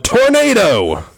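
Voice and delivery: very high, slow, drawn-out cry with a laugh; yelled warning. Retold or imitated. Priest tricking the firing squad, drawn-out laughing yell. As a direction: stretch it out in mock panic. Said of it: "And suddenly the priest yelled out".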